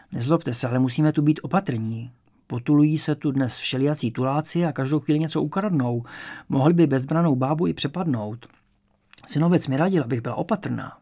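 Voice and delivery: a hint of a cautious old woman explaining herself; elderly landlady. Old landlady to a new lodger, a touch of wary politeness.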